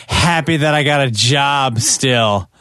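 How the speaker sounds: slow, deadpan mumble of relief; weary radio veteran. Retold or imitated. Host quotes a veteran broadcaster's joyless reply. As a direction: say it like the joy was drained out. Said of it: "Exact quote".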